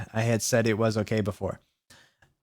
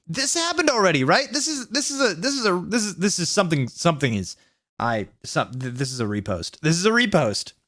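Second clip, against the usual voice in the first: dawning disbelief; 5 semitones higher than usual. Real, not acted. Realizing the chapter repeats.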